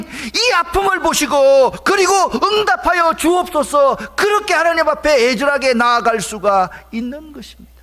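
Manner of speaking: loud, high, pleading pulpit cry; full-force preacher's shout, sustained high; impassioned preaching. Real, not acted. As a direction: cry out as if begging God in anguish. Preaches, acting out anguished prayer.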